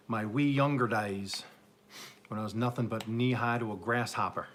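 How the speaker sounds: badly faked Southern accent; terrible Southern accent. Reminiscing about younger days in the garden, hammy Southern accent. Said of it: "That was a terrible Southern accent".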